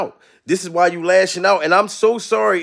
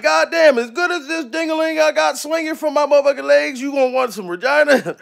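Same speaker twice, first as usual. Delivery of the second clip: higher, excited retelling; hammed-up self quote; mock exclaiming; 6 semitones higher than usual. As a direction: play up the disbelief. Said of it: "I'm like".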